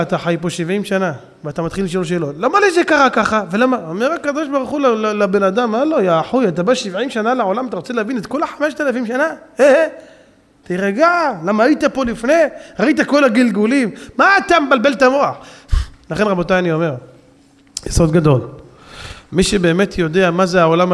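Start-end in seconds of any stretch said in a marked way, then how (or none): 5.7-15.4 higher, mock-exasperated divine rebuke; a lightly voiced God chiding; God scolding man. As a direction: scold him like an impatient father from above.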